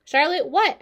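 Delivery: high, loud eager pig; bursting to know; eager question. A narrator's reading. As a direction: ask keenly, pitched right up. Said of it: "asked Wilbur eagerly".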